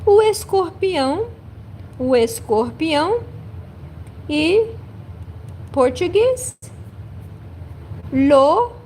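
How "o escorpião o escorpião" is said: "escorpião" rattled off, with the r as a throaty h; brisk Brazilian "o escorpião"; quick Portuguese demo. Shown as a demonstration. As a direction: snap out "o escorpião".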